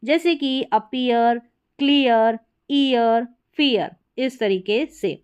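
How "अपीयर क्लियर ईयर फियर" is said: "अपीयर, क्लियर, ईयर, फियर" spaced, each with ee-uh; word list gliding from ee to uh before r; EE-UH glide. Shown as a demonstration. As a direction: model "क्लियर, ईयर" with a clear ee-uh. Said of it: "ए का उच्चारण ईय".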